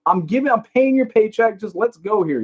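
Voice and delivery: high, put-on voice of the nosy cashier; mock cashier quiz. Narrator mimicking the nosy thrift store cashier. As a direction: imitate the cashier who grills you. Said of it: "she's, like, going".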